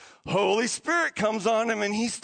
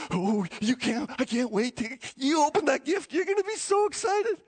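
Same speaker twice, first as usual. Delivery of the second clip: giddy excitement; 2 semitones higher than usual. Pretend. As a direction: play someone bursting to have a gift opened. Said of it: "like that giddy person going".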